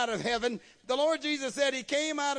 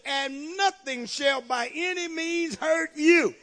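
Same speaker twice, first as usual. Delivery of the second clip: emphatic preaching; 3 semitones higher, 4 dB louder than usual. Real, not acted. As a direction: drive each phrase of the verse home.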